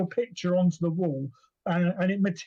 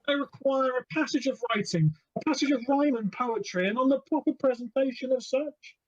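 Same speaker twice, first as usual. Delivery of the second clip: gatekeeper figure; 6 semitones higher than usual. Acted.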